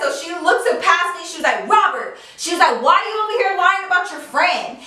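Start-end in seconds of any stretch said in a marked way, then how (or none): 1.7-2.2 loud call. Retold or imitated. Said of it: "Here goes Alicia's loud ass". 2.8-4.8 loud retort. Retold or imitated. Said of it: "Here goes Alicia's loud ass".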